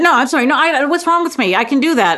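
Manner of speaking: acted guilty fluster; flustered apology. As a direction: backpedal in mock embarrassment. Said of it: "make a fool of myself".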